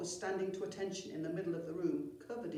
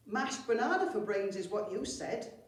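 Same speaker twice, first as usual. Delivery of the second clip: louder, higher eager goblin butting in; helpful interruption; 3 semitones higher, 6 dB louder than usual. Acted. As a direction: chime in helpfully, too eager. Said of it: "interrupted Saggy Pant helpfully".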